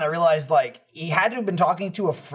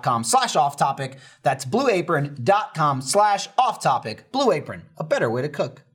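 smooth, practised sponsor read; 2 semitones lower than usual. Acted. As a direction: sell it like a podcast sponsor spot. Reads a sponsor ad.

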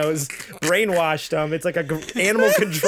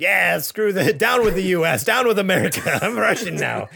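louder mock rallying cry; gung-ho turncoat; 3 semitones higher, 3 dB louder than usual. Co-host mimicking JJ switching sides, gung-ho turncoat. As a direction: chant it like an eager new defector. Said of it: "immediately is just like".

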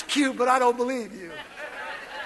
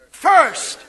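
loud call-and-response; 5 dB louder than usual. Shown as a demonstration. Preacher leads the congregation, loud. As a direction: punch first as the congregation repeats. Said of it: "say it with me".

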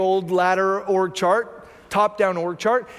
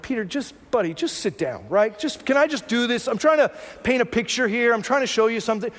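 patient hush. Retold or imitated. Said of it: "Jesus is probably thinking like".

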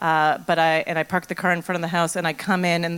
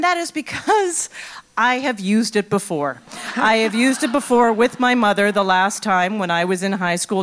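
words carried on a laugh; amused at the memory of lying; laughing while telling; 2 semitones higher than usual. Real, not acted. Laughing at own admission.

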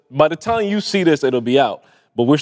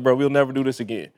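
quietly final, a hint of mobster; understated mob-boss warning; Sopranos tone; 4 dB quieter than usual. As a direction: lay down a calm, final warning. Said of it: "had a little Sopranos tone to it".

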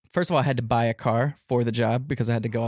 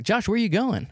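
higher-pitched imitation of a boss; questioning boss; 9 semitones higher than usual. Team bosses checking up on the mascot, higher questioning voice. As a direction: put on the boss calling out a question.

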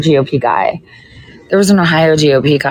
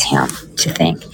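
a breathy aside whispered to herself; 13 semitones lower, 5 dB quieter than usual. Real, not acted. Whispering to herself while she thinks it over. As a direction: drop to a whisper, half to yourself.

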